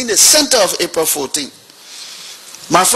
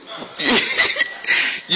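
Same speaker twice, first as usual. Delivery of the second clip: high, breathy mocking laugh; retold derisive laugh; scornful laugh. Minister scoffs at journalist.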